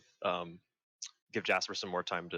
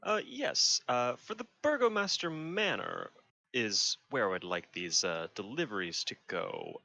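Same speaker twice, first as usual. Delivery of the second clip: disguised voice. Acted. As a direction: keep the light disguised voice. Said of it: "in his disguised voice".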